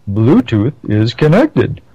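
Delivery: put-on slow, over-the-top posh British accent; fake British accent. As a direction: imitate a prim British announcement voice. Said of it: "in this very obnoxious, highfalutin British, fake British accent".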